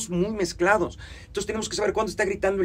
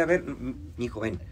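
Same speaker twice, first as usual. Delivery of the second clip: lower, softer coaxing; acted tender talk to one's inner child; careful, gentle parent; 4 semitones lower, 4 dB quieter than usual. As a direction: coax a small child gently. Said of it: "ser cuidadoso con el otro y decirle".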